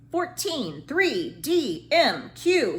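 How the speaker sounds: shouted out. A narrator's reading. Teacher calling letters for Trisha to write, shouted. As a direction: fire off the letters like a quiz game. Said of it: "he shouted out".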